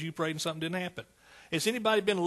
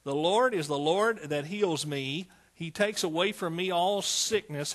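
bold declaration. Acted. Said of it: "and say".

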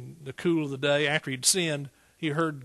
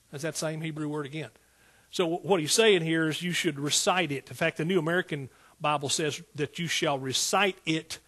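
ordinary delivery

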